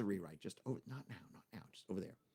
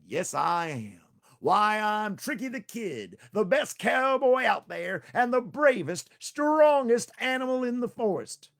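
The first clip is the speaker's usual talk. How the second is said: slow, high, loud swaggering brag; Tricky boasting he is strongest, slow and loud; grand boast; 10 semitones higher, 9 dB louder, slower than usual. Acted. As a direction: crow it out like the bravest hero.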